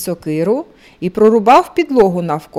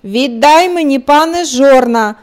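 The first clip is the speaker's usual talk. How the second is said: loud, higher, demanding cry; rooster shouts; 5 semitones higher, 4 dB louder than usual. Acted. Rooster shouting at the lord for his millstones. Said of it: "і кричить".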